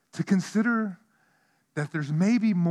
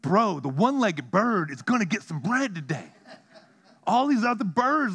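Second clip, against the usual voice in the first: laughing; 5 semitones higher, 3 dB louder than usual. Retold or imitated. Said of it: "I'm like".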